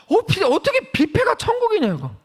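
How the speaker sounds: high-pitched indignant disbelief; incredulous protest. Acted. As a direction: protest as if it's absurd. Mock protest at buffet called heaven. (어이없다는 듯 높은 목소리로 따지기)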